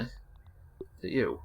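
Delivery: slow hushed whisper. Real, not acted. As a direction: whisper it, creeping closer. Sneaking up on a bug.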